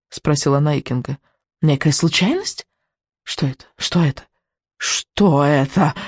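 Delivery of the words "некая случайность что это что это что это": witch's hissed questioning, slowing right down at the end; hissing witch. A narrator's reading. Witch questions the boy about what interfered, hissing. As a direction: hiss it like a nest of snakes, dragging out the last question. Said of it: "Ведьма шипела, как целое змеиное гнездо".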